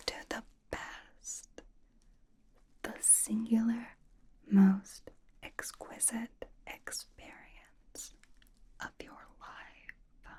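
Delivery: slow, hushed and drawn out; reverent build-up. Acted. Host introducing the best experience, slow reverent hush. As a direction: whisper each phrase as if unveiling something sacred.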